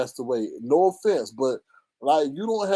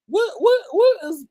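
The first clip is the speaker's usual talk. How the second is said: surprised; 4 dB louder than usual. Real, not acted. Confused over the name.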